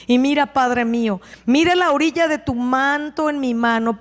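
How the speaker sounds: calling loudly to the king. Acted. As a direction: call out to him clearly but with respect. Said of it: "muy alto le dice". (en voz alta y respetuosa)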